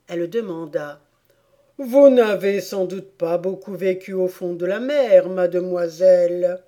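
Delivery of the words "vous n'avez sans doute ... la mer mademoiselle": lightly voiced sad turtle, louder; sorrowful turtle. Turtle questions Alice about life under the sea, lightly voiced sorrow. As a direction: speak up as a doleful storybook turtle.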